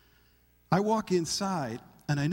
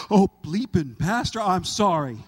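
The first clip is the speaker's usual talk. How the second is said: louder, startled, laughing sorry; embarrassed apology; 6 dB louder than usual. Retold or imitated. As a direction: blurt it out then apologize with a laugh. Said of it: "And he says".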